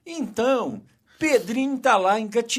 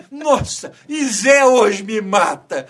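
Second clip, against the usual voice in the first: louder, slow cry of Zé hoje me mata; mock frightened mother; 6 dB louder than usual. Mother fears the husband's anger after the fall, mock dread. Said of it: "é o medo do marido".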